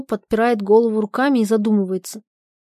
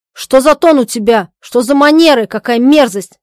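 disgusted rebuke; 3 semitones higher, 8 dB louder than usual. Acted. Zhadov disgusted.

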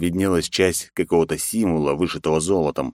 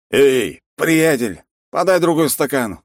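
put-on higher, louder drunk call; shouting across room; 9 semitones higher, 4 dB louder, slower than usual. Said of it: "крикнул он через весь зал".

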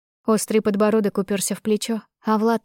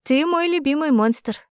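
higher, lightly teasing; soft laughing tease; 7 semitones higher than usual. A narrator's reading. Heroine teases her beloved monster, softly amused. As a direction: tease fondly with a touch of amusement. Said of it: "мягко рассмеялась Ария".

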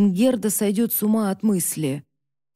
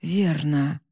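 dry; 3 semitones lower than usual. Acted. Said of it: "сухо заметил Хьялма".

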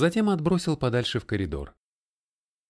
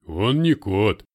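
awed; 7 dB louder, slower than usual. A narrator's reading. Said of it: "с благоговением проговорил русский".

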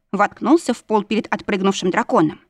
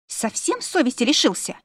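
mildly aghast, pitched higher; shocked gasp; 4 semitones higher than usual. A narrator's reading. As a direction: gasp it out in indignant disbelief. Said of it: "ахнула Дженни".

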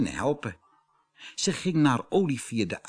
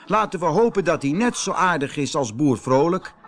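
hopeful animals; 6 semitones higher, 6 dB louder than usual. Acted. Animals speaking together.

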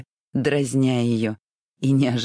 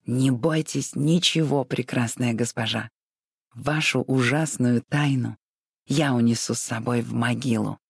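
mustache twirling villain. Acted. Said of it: "забавно имитируя театральный шёпот какого-нибудь злодея".

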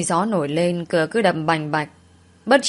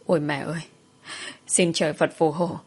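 hushed, lowered plea to heaven; soft, scared appeal for protection; frightened praying; 2 semitones lower, 5 dB quieter than usual. Acted. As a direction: pray under your breath in fear. Fleeing ghost, praying for help.

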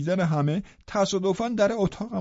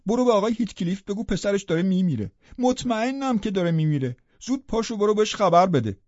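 a little louder, urgent plea; سراسیمه و فوری; 4 dB louder than usual. Acted. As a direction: tell her to hurry, slightly raised voice. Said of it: "سراسیمه اومد اتاقم". (با صدای کمی بلندتر و سراسیمه، فوری)

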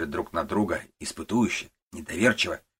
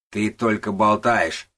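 slow, louder angry retort; 3 semitones higher, 7 dB louder, slower than usual. Acted. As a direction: spit it out slowly in anger. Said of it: "говорит Кляйнхольц сердито". (сердито, медленно и громко)

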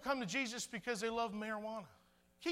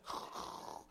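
soft voiceless rushing whoosh; imitated storm noise; 6 dB quieter than usual. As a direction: breathe out a hushed storm sound. Imitates phone storm sounds.

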